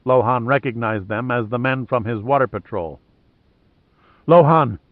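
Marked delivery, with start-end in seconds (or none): 4.3-4.8 panting out the name; gasped, out of breath from running; breathless fright. Acted. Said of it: "one of the men panted".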